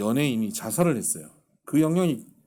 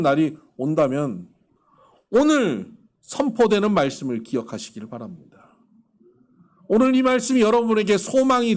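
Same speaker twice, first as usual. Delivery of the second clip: raised, loud pulpit exhortation; impassioned sermon appeal; fervent preaching; 5 semitones higher, 5 dB louder than usual. Real, not acted. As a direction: press the blessing on the congregation, high and loud. Preacher blesses and exhorts the congregation.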